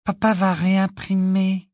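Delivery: slow, high voice full of wonder; enthusiastic. A narrator's reading. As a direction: announce it in high-pitched amazement. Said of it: "les yeux exorbités d'enthousiasme".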